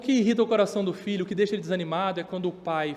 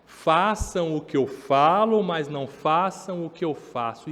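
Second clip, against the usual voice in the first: mock hypocritical parent; 4 dB louder, slower than usual. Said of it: "os pais falam assim".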